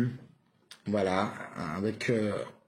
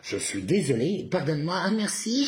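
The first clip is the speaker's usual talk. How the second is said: rising version; 7 semitones higher than usual. Shown as a demonstration. Working up to an outburst, pitch climbing. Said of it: "je vous le fais, euh, sous plusieurs versions".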